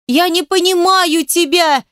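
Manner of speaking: high, loud, slow desperate scream. A narrator's reading. Girl screaming she cannot understand him, high loud slow scream. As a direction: scream it at him, stretching each word. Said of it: "закричала ещё громче".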